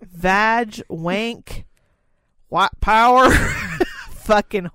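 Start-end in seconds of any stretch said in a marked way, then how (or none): 2.5-4.7 loud backwoods redneck voice barking the words; backwoods racist voice. Acted. Reading a list to a friend, loud backwoods redneck voice. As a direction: ham up a racist hick from the woods. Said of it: "the most racist voice you can muster".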